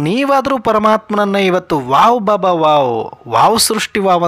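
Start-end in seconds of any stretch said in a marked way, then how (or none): 1.9-4.3 mock delighted exclamation. Preacher acting out listeners praising Baba, mock delight. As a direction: play the thrilled child for a moment. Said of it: "ಅಂತ ಹೇಳ್ಬೋದಾಗಿತ್ತು".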